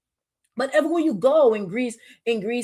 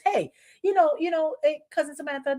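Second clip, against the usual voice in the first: 1 mock casual smoker; 5 semitones higher than usual. Imitating smoker hiding vape.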